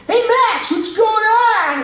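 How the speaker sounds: very high, drawn-out cartoon call; squealing high dopey greeting. Shown as a demonstration. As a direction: call out as a big, slow cartoon kid. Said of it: "P J was like this".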